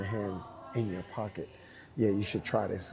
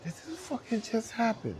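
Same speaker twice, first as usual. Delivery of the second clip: stunned laughing disbelief; 11 semitones higher than usual. Retold or imitated. A singer stunned, laughing.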